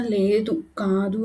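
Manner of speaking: "లేదు" lifted at the end like a question; questioning denial. A narrator's reading. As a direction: say "లేదు", then "కాదు", unsurely, half asking. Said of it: "కాంతి ప్రశ్నార్థకంగా". ("లేదు" ప్రశ్నార్థకంగా, స్వరం పైకెత్తి)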